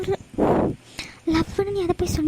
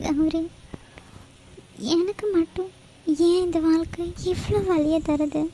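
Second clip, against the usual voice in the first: tearful. Acted. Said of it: "நான் யார்கிட்ட சொல்லி அழுறது?".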